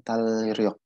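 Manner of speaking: "tal riok" slowly, long l then a separate r; slow "tal riok", split between l and r; wrong mixed reading. Shown as a demonstration. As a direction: sound both l and r in "tal riok". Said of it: "bukan gitu ya".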